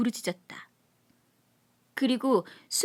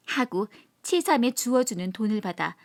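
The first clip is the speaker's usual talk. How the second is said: usual speaking voice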